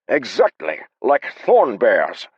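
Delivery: high, loud, dragged-out dread; panicked. Acted. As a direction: stretch out thorn bears in dread. Haber panics about beasts.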